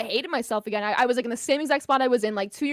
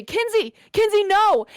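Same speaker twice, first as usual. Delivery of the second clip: high, louder plea after someone; imitated high-pitched call to stop; retold calling out; 8 semitones higher, 5 dB louder, slower than usual. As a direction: mimic him calling as he gives chase. Retold boyfriend chasing and calling.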